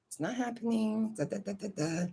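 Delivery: hushed whisper, a mom refusing to see it; whispered denial. Retold or imitated. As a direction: whisper it like you're shutting it out. Mom denying, suppressing it.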